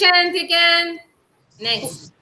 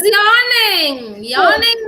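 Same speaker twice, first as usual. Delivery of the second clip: slow yawning voice; 6 semitones higher, 4 dB louder, slower than usual. Shown as a demonstration. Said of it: "teacher acts out yawning".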